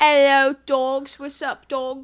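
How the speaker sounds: loud, heavily laid-on fake British accent. Podcast host greeting the listeners at the start of the show, in a British-sounding accent. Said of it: "you sound like you're that um that British bitch".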